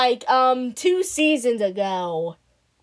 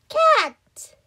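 whispered. Acted. Character introduction.

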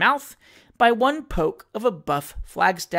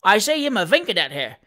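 louder cockney-ish heckle; shouted taunt; 5 dB louder than usual. A narrator's reading. Fourth heckler shouting at Pickwick, loud jeering taunt. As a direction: shout the taunt across the crowd. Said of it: "shouted a fourth".

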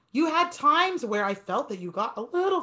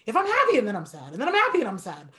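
quick mood swings; 3 dB louder, much faster than usual. Shown as a demonstration. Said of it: "people think I'm crazy".

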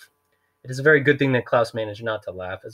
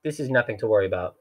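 smooth interruption. Acted. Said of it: "Stefano interrupted smoothly".

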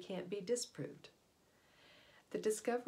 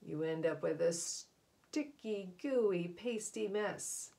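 savoring messy words; 4 dB louder, slower than usual. Acted. Relishing a messy image.

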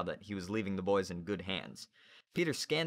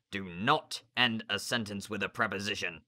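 stern teacher. Acted. Narrator voices Grumpkin.

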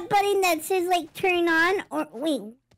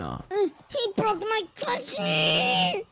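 crying; much slower than usual. Acted. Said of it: "why are you freaking out like this".

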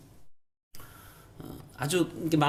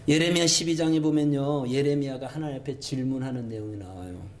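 ordinary delivery

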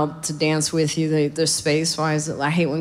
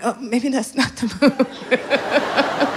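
doubtful; 4 semitones higher, much slower than usual. Retold or imitated. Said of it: "I'm like".

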